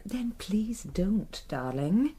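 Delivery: slow hushed whisper of a warning. Acted. Wife warning her husband not to pry, in a slow whisper.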